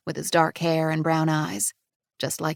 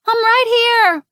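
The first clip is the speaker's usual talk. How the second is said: louder, higher call of a running father; loud relieved call; 11 dB louder, slower than usual. A narrator's reading. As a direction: reach her with your voice first. Father rushing to his child.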